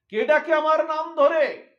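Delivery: high, loud wail of alarm; anguished cry. Acted. Radha crying out on hearing her name called. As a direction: cry it out as if the heart is shaking. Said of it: "এমন করে আর্তনাদ করে".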